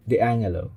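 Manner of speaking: "D'Angelo" with ng and no j sound. Shown as a demonstration. Reviewer trying out the name, "D'Angelo" with an ng sound. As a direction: say "D'Angelo" as dee-ANG-uh-lo. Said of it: "It's either D'Angelo or D'Angelo".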